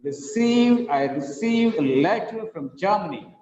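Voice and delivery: "received" pushed up, then beats on "letter", "Germany"; up-and-down rhythm. Shown as a demonstration. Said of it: "The rhythm goes ups and down".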